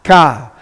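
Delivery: "ka" as one syllable, a k then an open ah; teacher models "ka" on its own; syllable demo. Shown as a demonstration. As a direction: sound out "ka" for learners. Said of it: "we're gonna pronounce that".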